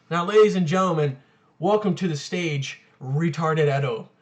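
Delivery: lightly voiced show host introduction; mock stage announcer. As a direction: announce yourself like a stage act, slowing on the name.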